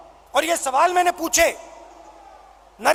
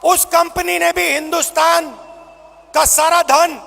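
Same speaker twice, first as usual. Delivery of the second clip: booming political rally speech. Real, not acted. Rally crowd address, shouting.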